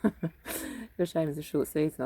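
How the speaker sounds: imitating shop man. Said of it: "he was saying".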